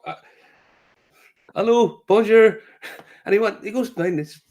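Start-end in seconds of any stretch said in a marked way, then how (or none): 1.5-2.6 higher, louder, slow nervous hello; startled tentative hello; nervous greeting. Retold or imitated. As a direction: greet the man with bayonets warily. Nervous greeting to armed man.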